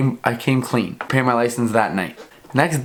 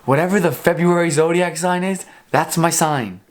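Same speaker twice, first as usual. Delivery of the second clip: raised pitch, fed-up retort; exasperated insistence; 5 semitones higher than usual. Retold or imitated. Driver answering cop's zodiac question, mock exasperation. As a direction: insist on it as if done with the quiz.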